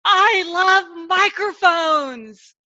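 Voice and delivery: slow breathy whisper of delight; slow whispered gush; blurted whisper. Retold or imitated. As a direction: confess it like a secret. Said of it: "I said in front of".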